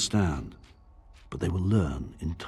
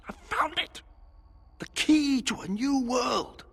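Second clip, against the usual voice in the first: triumphant shout. Acted. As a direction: proclaim it like a revelation. Discovery exclamation, rising to shout.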